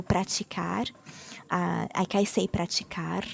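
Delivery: praticar with a tapped final R; rolled final R. Shown as a demonstration. Teacher shows her own praticar, tapped R. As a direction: tap the last R of praticar. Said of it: "the rolled R".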